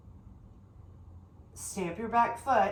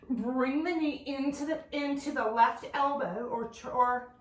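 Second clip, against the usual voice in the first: winded, stumbling over the words; out of breath; 3 dB quieter than usual. Real, not acted. Yoga teacher fumbling a cue mid-flow, out of breath. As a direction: lose your words for lack of breath. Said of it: "I'm out of breath".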